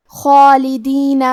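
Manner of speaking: خالدین very slow, heavy خ and long heavy alif; tajweed demo. Shown as a demonstration. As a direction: draw out خالدین with a thick خ. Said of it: "مد الف کو تفخیم سے مطلب بھاری آواز میں ادا کرنا ہے". (خالدین بہت آہستہ، خا اور مد الف بھاری آواز میں)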